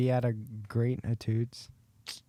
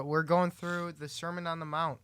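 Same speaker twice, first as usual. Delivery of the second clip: mumbled away from the mic; softly, off mic; too quiet; 5 dB quieter than usual. Real, not acted. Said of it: "You gotta talk into the mic".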